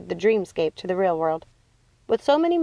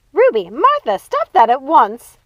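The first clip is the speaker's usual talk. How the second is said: loud slow commanding scold; furious loud command; stern scold; 6 semitones higher, 9 dB louder, slower than usual. A narrator's reading. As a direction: order them to stop at once. Scolding sisters to stop.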